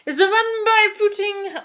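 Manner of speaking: put-on high, loud old nanny falsetto; quoting a film character in a shrill falsetto; Mrs Doubtfire voice. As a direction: squeal it like the Scottish nanny.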